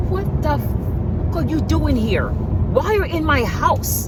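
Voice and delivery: high, indignant retelling of yelling at him; retelling an angry confrontation, pitched high; mock outraged yell. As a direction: play it shocked and furious. Retold confrontation with intruder.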